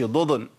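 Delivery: ضضن quickly with a vowel slipped onto the second ض; vowelled Dad, wrong. Shown as a demonstration. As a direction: say ضضن as 'dodon', both Dads moving. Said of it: "بيحرك الضاد".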